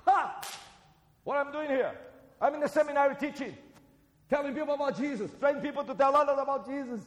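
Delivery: loud, high-pitched burst of enthusiasm; fast, high, triumphant answer; excited exclamation. Acted. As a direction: proclaim it with delighted pride. Proudly answering what he does here.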